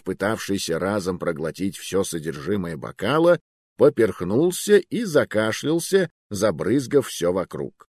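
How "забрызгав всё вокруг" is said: plain reading voice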